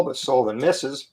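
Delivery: hoarse just-woke-up voice; rough morning voice, hoarse. Real, not acted. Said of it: "my morning voice".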